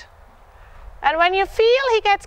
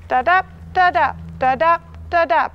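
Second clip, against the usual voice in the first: rhythm chant. Shown as a demonstration. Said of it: "play with an energy ball".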